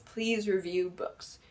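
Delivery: quiet, slow "please review books"; soft slow plea. Shown as a demonstration. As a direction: say "please" softly and slowly.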